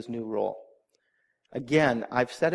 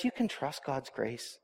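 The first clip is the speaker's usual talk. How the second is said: much softer, slow and tender; soft reassurance; 8 dB quieter, slower than usual. Shown as a demonstration. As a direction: hush it like a comforting promise. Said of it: "Samuel says".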